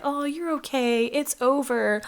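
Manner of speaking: retold there-there reassurance; soothing reassurance. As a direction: imitate nurses calming someone down. Nurses soothing her after panic.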